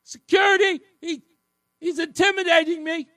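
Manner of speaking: high, loud fake panic calling for help; mock panicked screaming. Host mimicking Tong crying for security, high hammed-up yell. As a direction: yell for security like a scared kid. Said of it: "screaming for the teacher or security".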